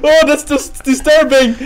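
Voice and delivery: laughing through the words; shaken laughter. Real, not acted. Laughing after the scare.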